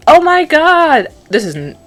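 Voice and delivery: playful mock girly gasp; mock ditzy girl. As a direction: gush like a shopping-obsessed teen. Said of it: "whatever happened to".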